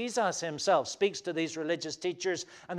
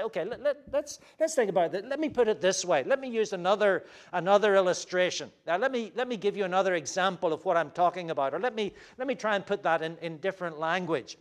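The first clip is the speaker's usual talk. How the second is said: friendly re-explaining; 3 semitones higher, faster than usual. Shown as a demonstration. Acting out how to re-explain.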